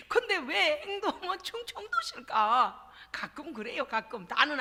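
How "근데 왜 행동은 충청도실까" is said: slow, laughing teasing line; laughing tease. Acted. Pastor teasing the congregation, slow and laughing. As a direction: chuckle through the jab at slowness.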